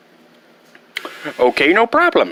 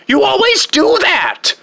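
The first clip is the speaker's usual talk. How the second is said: high-pitched exasperated cry; whiny complaint at dad; exasperated outburst; 3 dB louder than usual. Acted. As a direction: blurt it out, fed up. Son scolds father at therapy.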